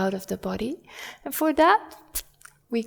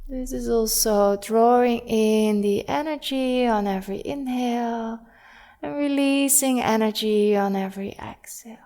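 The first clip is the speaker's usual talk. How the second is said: guided body scan. Real, not acted. Yoga teacher guiding students to soften and breathe, calm and measured. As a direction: ease them gently into breathing, unhurried.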